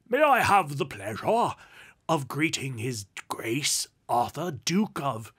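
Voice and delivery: loud, pompous, effusive greeting; booming flattery from a portly petitioner; robust gentleman. A narrator's reading. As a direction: greet a nobleman with hearty ceremony.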